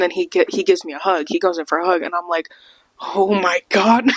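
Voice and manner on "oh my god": starstruck. Retold or imitated. Starstruck as he hugs her.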